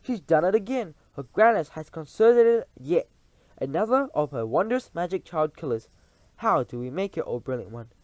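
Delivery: awed witches. Acted. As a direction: marvel at her. Coven praising and asking.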